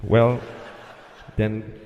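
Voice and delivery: lightly voiced bored controller, slow; weary air traffic controller. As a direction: drag it out, giving up. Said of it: "That's how he said it".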